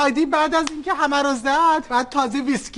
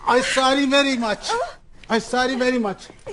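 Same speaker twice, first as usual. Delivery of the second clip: broken English apology; much slower than usual. Acted. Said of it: "ببخشید".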